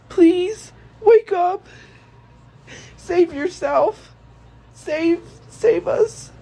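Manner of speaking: desperate crying plea to her brother; tearful plea. Retold or imitated. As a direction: beg him to wake up, crying, slowed. Imagined plea to the dead brother.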